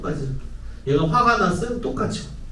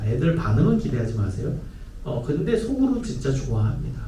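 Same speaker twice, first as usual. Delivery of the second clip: ordinary talk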